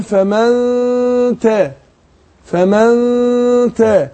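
فمن with the ن hidden into a nasal hum before تا; slow, broken demo, nasalize the nun into تا; teacher drilling the hidden ن of فمن before تا. Shown as a demonstration. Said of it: "أخفيت النون".

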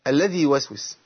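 الذي يوسوس with the ي of الذي kept long; quick recitation of the example; recited example. Shown as a demonstration. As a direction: stress الذي then يوسوس. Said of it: "في سورة الناس".

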